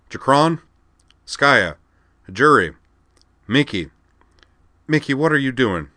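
loud, high roll call; a loud roll call ending in alarm; calling out names. Acted. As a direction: shout each name up the plank.

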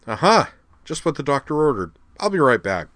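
high, loud, eager exclamation; delighted discovery. A narrator's reading. Wakaba spotting the grill while starving, delighted. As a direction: burst out high at a happy find.

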